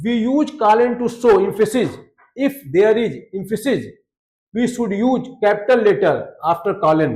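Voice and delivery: slow, deliberate reading of the textbook line; slow read-aloud. Shown as a demonstration. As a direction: read it out word by word for students. Reads English rule aloud slowly.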